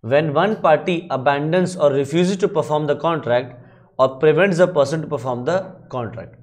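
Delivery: reading the statute slowly and deliberately; slow legal text reading. Shown as a demonstration. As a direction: dictate each clause like a law book. Reads out the law text.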